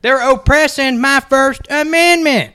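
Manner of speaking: hoog, traag spotvoorbeeld van een boze poster; hammed-up offended internet poster; mock outraged poster. Mocking a poster.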